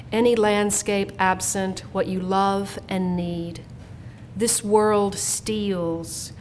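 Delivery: measured poem reading, phrase by phrase; poetry reading. Real, not acted. Poet reads her instructions to her sons, measured poetry reading. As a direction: read it as a poem, lingering on the lists.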